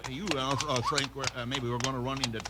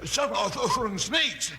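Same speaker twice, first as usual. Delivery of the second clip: frightened; 7 semitones higher, slower than usual. Acted. Sheriff spooked in dark cave.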